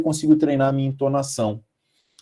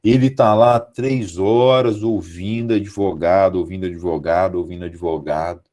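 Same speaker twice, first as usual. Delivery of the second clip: repetitive drone sinking lower; tedious list, each repeat lower; weary monotony; 5 semitones lower than usual. Shown as a demonstration. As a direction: drone on as if hearing it endlessly. Illustrates a judge's tedious hours.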